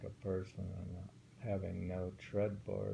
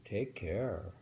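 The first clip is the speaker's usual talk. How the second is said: slow, careful haiku reading; poem reading; slower than usual. Acted. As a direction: take the lines slowly, warn on "Take care". Reads a haiku aloud.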